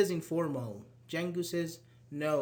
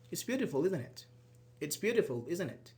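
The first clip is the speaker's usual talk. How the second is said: "isn't it" drops at the end; falling tag intonation. Shown as a demonstration. Teacher demonstrates stating an opinion with a tag, falling intonation. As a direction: let "isn't it" fall, just stating an opinion. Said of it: "so you make it falling".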